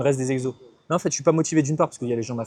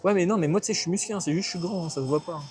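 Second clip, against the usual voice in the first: mock excuse voice; 3 semitones higher than usual. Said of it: "Ça c'est l'excuse".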